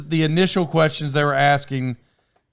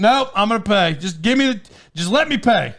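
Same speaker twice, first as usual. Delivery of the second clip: higher-pitched retold exasperation; mildly mad customer; 5 semitones higher than usual. Customer insisting to waitress on paying, mock annoyance. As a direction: insist like a fed-up diner, lightly acted. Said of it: "mad about it".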